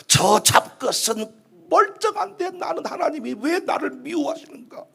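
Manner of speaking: slow, drawn-out mock lament; acted self-pity. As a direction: grumble woefully that God has it in for you. Acting out resentful self-pity. (느릿하게 늘어지는 신세 한탄)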